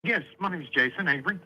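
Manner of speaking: caller heard through a phone line; thin phone-line sound; over the phone. Real, not acted. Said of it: "We're talking through the phone".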